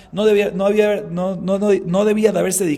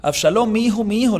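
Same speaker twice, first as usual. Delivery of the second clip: a touch of a grieving father, a little higher and louder; mournful cry; 5 semitones higher, 3 dB louder than usual. Retold or imitated. Teacher voicing David mourning Absalom, mildly grieving. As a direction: lightly voice David weeping for his son. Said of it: "David se puso a llorar y dijo".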